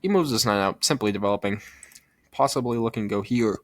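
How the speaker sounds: talking through hiccups; hiccuping between words. Real, not acted. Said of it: "Sorry, I have the hiccups right now".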